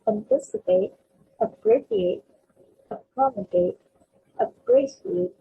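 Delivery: anticipate, abbreviate, accommodate, appreciate, each punched on its second syllable; second-syllable stress. Shown as a demonstration. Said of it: "stressing on the second syllable".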